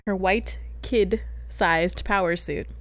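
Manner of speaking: put-on slow "white", pause, "kid-sized", pause, "power suit"; separated words. Shown as a demonstration. Fixing the phrase after co-host's semicolon joke, "white" set apart from "power suit". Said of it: "put a semicolon in between it".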